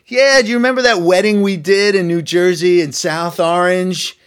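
lightly voiced New York caller jogging a memory; the speaker's New York voice. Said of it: "I sound like I was still really a New Yorker".

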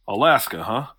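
"Alaska, huh?" as a mild question; "Alaska" lightly queried, with "huh?" tagged on. Acted. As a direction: put "Alaska, huh?" to them, inviting an answer. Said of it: "he says Alaska like it's a question".

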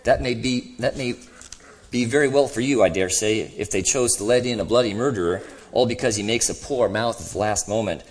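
lightly voiced grumbling ghost; a touch of self-righteous grievance in the voice; indignant ghost. Ghost defending his record to the other, mildly indignant.

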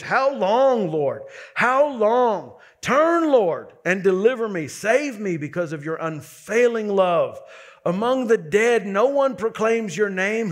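recited plea, surging on key words; crying out to God. Retold or imitated. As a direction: call out to God as the praying psalmist. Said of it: "he's crying out to God".

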